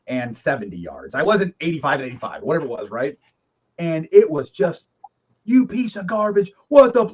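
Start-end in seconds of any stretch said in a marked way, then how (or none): 5.4-7.1 slow, high insult building louder; angry dressing-down. Retold or imitated. Superior berating him in front of juniors, mock furious. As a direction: imitate a superior tearing into someone.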